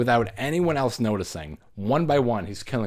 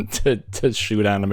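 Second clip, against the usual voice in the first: sarcastic mock voice. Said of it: "He's like".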